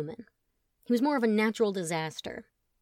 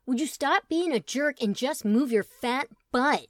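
yell; 4 semitones higher, 5 dB louder than usual. Acted. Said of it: "yelled Truman".

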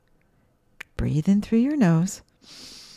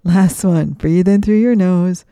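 louder cue; 7 dB louder than usual. Acted. Calling out final breath.

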